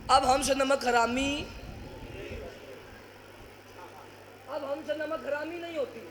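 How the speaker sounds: very soft, subdued delivery dying away; hushed repeat. Real, not acted. Preacher repeating the children's answer after the crowd's roar, hushed repeat. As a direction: let the line drop to a near-murmur. Repeats the climax line, much softer.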